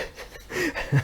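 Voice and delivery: high, soft chuckle; a private giggle at the memory. Real, not acted. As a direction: chuckle to yourself. Amused telling about the scoot.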